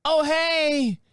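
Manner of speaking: high, loud startled greeting; caught off guard. Retold or imitated. Caught mid-scratch, greeting the neighbor in high startled voice. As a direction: blurt it, caught in the act. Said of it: "And then I go".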